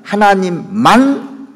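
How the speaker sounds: 하나님만 with 만 drawn out and lifted; stress on 만. Shown as a demonstration. Preacher points out the key word to the congregation, stress on 만. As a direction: hold and raise the 만 in 하나님만. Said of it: "만자가 제일 중요해요".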